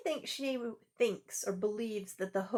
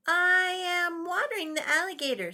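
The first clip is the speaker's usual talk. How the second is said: put-on higher, louder matter-of-fact boy; Zach; 8 semitones higher, 6 dB louder, faster than usual. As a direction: state it as if perfectly normal. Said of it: "said Zach".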